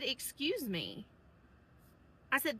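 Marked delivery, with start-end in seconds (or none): 0.0-1.1 polite request. Retold or imitated. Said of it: "I just said".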